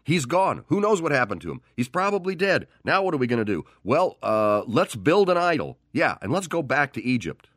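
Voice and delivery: high-pitched, hammed-up frightened crowd; mock panic. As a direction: play the panicking people, pitch way up. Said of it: "they freaked out and flipped out".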